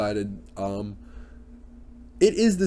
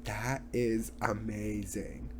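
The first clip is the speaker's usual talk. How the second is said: Kylie; 8 dB quieter, much slower than usual. Retold or imitated. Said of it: "she looks like".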